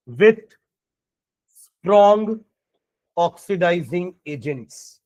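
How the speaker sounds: slow, drawn-out dictation voice. Shown as a demonstration. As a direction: spell it out slowly for note-taking. Dictating notes.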